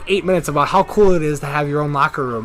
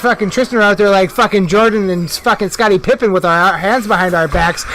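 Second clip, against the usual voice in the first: excited rant; 3 semitones higher, 4 dB louder than usual. Real, not acted. Hyped retelling of anthem scene.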